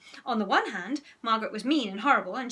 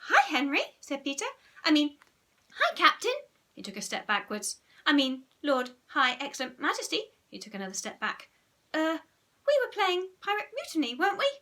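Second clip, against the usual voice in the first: nervous Peter; 5 semitones higher than usual. Acted. Nervous Peter backing away.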